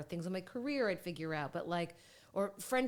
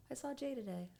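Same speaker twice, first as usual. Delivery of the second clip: breathy secret whisper, a little higher; whispered aside; 6 semitones higher, 5 dB quieter than usual. Retold or imitated. Retelling her own inner thought.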